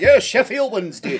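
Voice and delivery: lightly put-on Thai accent; a joking stab at a Thai accent; mock Thai accent. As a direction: parody a Thai local, through amusement. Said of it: "An authentic Thai accent right there".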